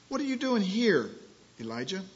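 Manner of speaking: strong voice of God demanding an answer; booming question. Acted. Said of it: "Still small voice".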